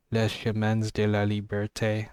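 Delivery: mock French accent on the title; lightly put-on French accent, said with a flourish; playful French accent, only hinted; best French accent. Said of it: "That was my best French accent".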